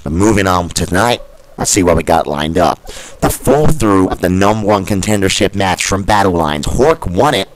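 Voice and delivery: hyped wrestling commentator; booming wrestling show host; announcer. Acted. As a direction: open the show like a ring announcer.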